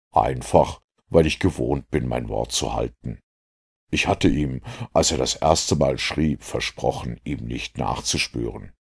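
lightly voiced low, calm detective; composed Holmes. Holmes explains he keeps his word, lightly voiced composure.

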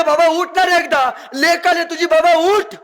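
grieving daughter at her father's body, wailing; daughter's wail. Acted. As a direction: beg the dead father to wake up. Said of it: "हंबरडा फोडते".

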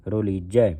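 ਰੁਲੀਜੈ with the first vowel rounded toward "ro", "ro-lee-jai"; linked short-u pronunciation. Shown as a demonstration. Teacher shows the aunkar on rara, ਰੁਲੀਜੈ as "ro-leejai". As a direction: round the opening of ਰੁਲੀਜੈ, joined to the rest. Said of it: "ਇਹ ਸੰਬੰਧਕ ਲਾ ਕੇ ਉਚਾਰਨ ਕਰਨਾ ਹੈ".

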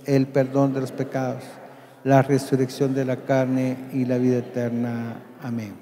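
reciting prayer. Acted. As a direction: recite the Creed steadily together. Congregation recites the Creed together.

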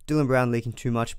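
ordinary talk, nothing marked

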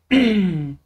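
rough throat clearing; chesty cough. Real, not acted. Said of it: "biraz öksürüyorum". (boğuk öksürük)

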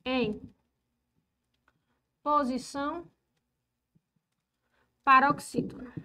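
measured board dictation; word-by-word dictation. Real, not acted. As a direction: separate words, long pauses between. Dictates while writing the rule.

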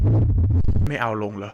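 very slow, low drawn-out question; slow deep question. Retold or imitated. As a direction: stretch every word out low. Asking the saluting kid.

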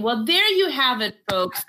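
a hint of a host wrapping up; lightly voiced reporter sign-off; mock newscaster closing to the viewers. Host signs off the interview.

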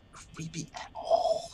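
slow breathy whisper; whispered echo. Acted. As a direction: mutter it slowly under breath.

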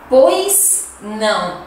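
"Pois não" spoken slowly, weight on "pois". Shown as a demonstration. Teacher repeating the clerk's words slowly for learners. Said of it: "Se traduz".

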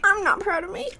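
high, strained pained whine. Real, not acted. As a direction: whine it through the burn. Suffering spice reply.

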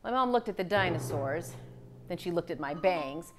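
lively picture-book read-aloud; story narration. A narrator's reading. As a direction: read it to young children, clearly paced.

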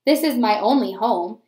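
grumble, then let him soften; mopey penguin. Acted. Penguin speaks again.

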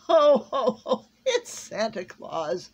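booming, drawn-out ho-ho-ho; jolly Santa Claus. A narrator's reading. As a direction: bellow a hearty Santa greeting. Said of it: "said the jolly voice".

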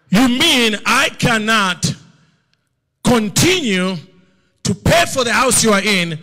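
loud and high, slowing on key words; booming voice of God. Retold or imitated. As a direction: thunder out a father's rebuke. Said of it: "He said to me".

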